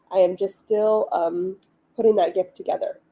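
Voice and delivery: talking through hiccups. Real, not acted. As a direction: speak with hiccups breaking in. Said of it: "excuse me, I have the hiccups".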